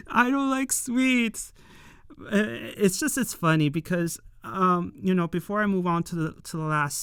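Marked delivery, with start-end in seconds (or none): 0.1-1.5 drawn-out, a bit higher, as a grumpy refusal; slow mock grumble. Fan replaying the character turning down pudding, slowed for laughs. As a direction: stretch the refusal slowly for the joke. Repeats the line slowly, laughing.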